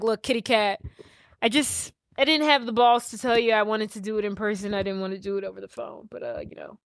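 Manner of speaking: nonchalant. Acted. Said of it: "He's being very nonchalant".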